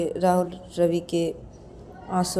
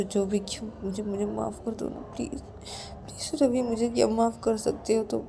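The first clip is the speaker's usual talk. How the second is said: soft, remorseful pleading; hushed, stammering apology; begging forgiveness; 6 dB quieter than usual. Acted. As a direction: plead quietly and brokenly for pardon. Rahul begs forgiveness at friend's feet.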